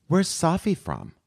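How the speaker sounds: slow, high Boston drawl; imitating a Boston lady; Boston accent. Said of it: "Like that".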